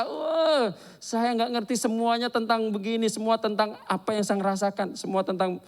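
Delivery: a hint of sobbing complaint; retold crying outburst. Husband retells his wife pouring out her hurt, lightly imitating her tearful voice. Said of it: "dia langsung nangis pecah".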